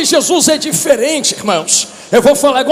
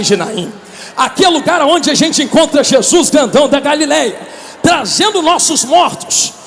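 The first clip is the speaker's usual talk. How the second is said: fervent preaching. Acted. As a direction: preach it with fire to the crowd. Preaching at full force. (pregação fervorosa e alta)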